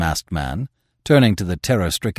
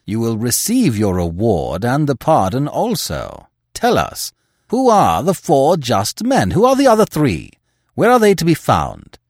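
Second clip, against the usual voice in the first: urgent high demanding questions; crying out; 5 semitones higher, 5 dB louder than usual. A narrator's reading. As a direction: press them hard, voice raised. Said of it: "cried Welby".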